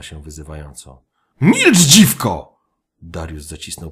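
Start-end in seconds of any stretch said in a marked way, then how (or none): 1.4-2.6 slow, much higher, very loud bellow; furious roar. Acted. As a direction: roar it at her in rage. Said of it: "warknął Darius". (wściekły ryk)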